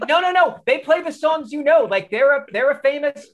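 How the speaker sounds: put-on high-pitched, pleading kid protest; acted-out desperate objection; frantic protest. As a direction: protest urgently, pitched well up. Child pleading with dad to stay.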